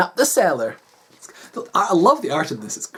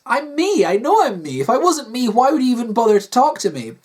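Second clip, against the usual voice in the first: higher, lightly voiced upset wife; insistent Kathy; 5 semitones higher than usual. Wife arguing with husband that she's real, upset. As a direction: protest with mild desperation.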